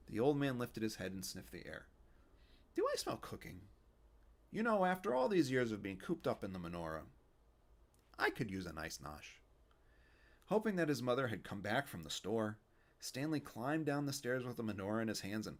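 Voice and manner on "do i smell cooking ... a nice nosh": loud, cranky Yiddish grandpa; a kvetching old man, raised up. Acted. Fischel voice continues.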